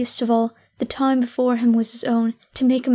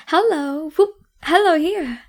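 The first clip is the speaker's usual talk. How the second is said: much higher, louder whooping hello; gleeful hollering; 4 semitones higher, 3 dB louder than usual. A narrator's reading. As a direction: holler out like a giddy child. Scrooge hollering with glee.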